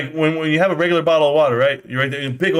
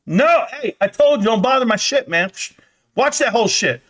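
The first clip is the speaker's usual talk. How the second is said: higher, hammed-up irritation; mock annoyed husband; 5 semitones higher than usual. Viewer telling wife not to bother him, mock annoyed. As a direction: brush off an interruption with mock exasperation.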